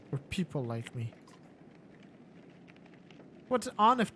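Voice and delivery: slyly questioning villain; probing warlord. Acted. Warlord Akil probes Rook about what kind of man. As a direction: needle him about who he is.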